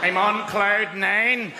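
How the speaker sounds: put-on deadpan, monotone Northern Irish accent; downbeat Northern Irish accent. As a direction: claim joy glumly in a Northern Irish accent. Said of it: "sound a little bit downbeat".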